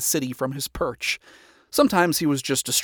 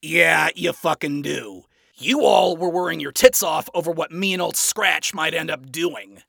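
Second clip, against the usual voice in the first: flat; 5 semitones higher, 7 dB louder than usual. A narrator's reading. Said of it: "Adam said flatly".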